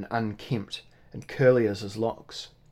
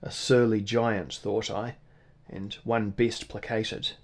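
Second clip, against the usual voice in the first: plain reading voice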